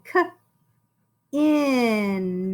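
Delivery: "K" and "in" isolated sounds; sounding out. Shown as a demonstration. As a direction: sound out each part. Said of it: "two-syllable word".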